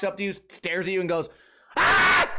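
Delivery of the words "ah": piercing, very high mock scream; imitated kid's scream. Kid walks up, stares at you and screams, imitated shriek. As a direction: shriek like a little kid, loud.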